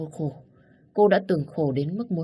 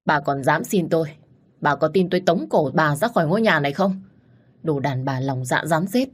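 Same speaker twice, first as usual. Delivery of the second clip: angry scolding; 3 dB louder than usual. Acted. Father keeps berating his wife.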